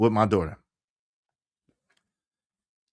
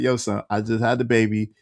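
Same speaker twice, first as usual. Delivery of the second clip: lightly voiced impression, pitched lower; imitating Shorty; 5 semitones lower than usual. Shorty asking him for a paternity test, low-pitched imitation. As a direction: drop down low to mimic how she talks. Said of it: "this how she talks".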